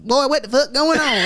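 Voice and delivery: same line but as a country white guy; country white twang. Retold or imitated. Contrasting white Atlanta slang, twangy Southern white accent. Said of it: "in the white".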